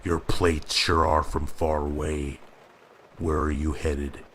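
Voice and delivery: light Midwestern cop drawl; a hint of a small-town Midwestern officer. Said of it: "he said in a Midwestern drawl".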